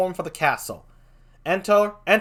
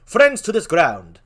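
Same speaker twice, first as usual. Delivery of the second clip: Marcellus voice; 4 semitones higher, 8 dB louder than usual. Acted. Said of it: "How do Marcellus like this?".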